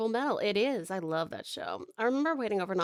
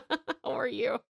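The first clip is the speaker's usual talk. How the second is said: fading Canadian; 8 semitones higher, slower than usual. Acted. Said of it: "turning me Canadian".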